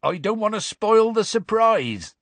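pleased, high-pitched excitement; happy. A narrator's reading. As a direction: bubble over with a secret. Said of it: "said Hagrid happily".

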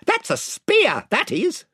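showing off his spear throw; proud chief voice. A narrator's reading. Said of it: "said the chief voice".

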